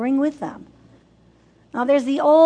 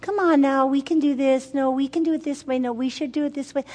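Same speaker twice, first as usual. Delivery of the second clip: coaxing mother; 3 semitones higher than usual. Retold or imitated. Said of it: "Coaxing and rewarding a child".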